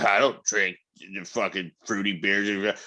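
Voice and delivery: a slow, lightly mocking voice for the macho younger self; mock his old fruity-beer snobbery. Mocking his younger self who scorned fruity beer, slowly. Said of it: "I remember being back when I was".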